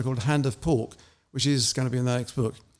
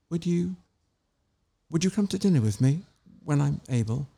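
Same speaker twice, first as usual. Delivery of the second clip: timid stammer; 2 semitones higher than usual. Acted. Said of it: "she stammered".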